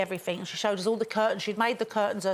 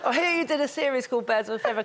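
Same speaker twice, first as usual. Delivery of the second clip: mock American accent; 4 semitones higher than usual. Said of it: "Go on, try".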